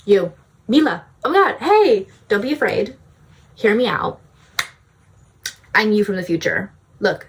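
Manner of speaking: lightly voiced bubbly future self. Future self greets her startled past self, bubbly and eager. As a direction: gush at your past self, reassuring her. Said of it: "I'm an energy bubbly queen".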